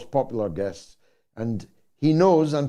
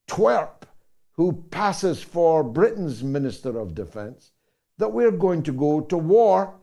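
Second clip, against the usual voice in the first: indignant rant; 4 semitones higher than usual. Real, not acted. Host mocks Britain's defence minister with rising scorn.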